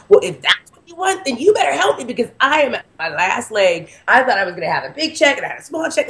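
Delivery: high, fast exasperated yelling; yelling at the universe. Retold or imitated. Woman driving, yelling at the universe for help, high exasperated yell. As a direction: rant at the sky like you're at wit's end. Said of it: "And I'm yelling at the universe driving".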